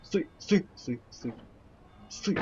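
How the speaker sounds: sudden high panicked yell; yelling stop. Real, not acted. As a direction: shout it as you slip. Falling in game, yelling stop.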